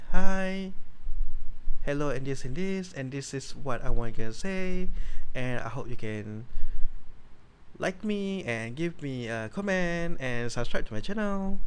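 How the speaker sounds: light imitation of a YouTuber greeting, opening loud; hammed-up channel intro, lightly done. Mocking YouTubers greeting their viewers, a hint of hammed-up intro. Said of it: "Who YouTubers are talking like that".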